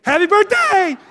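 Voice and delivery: Happy birthday! shouted in mock glee; mock excited. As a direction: sell the joke like a party host. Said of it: "I'm like".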